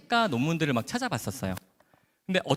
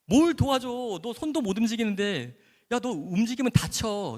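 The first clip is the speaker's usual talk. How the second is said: mock scolding; 9 semitones higher, 3 dB louder, slower than usual. Doctor scolding patient kindly.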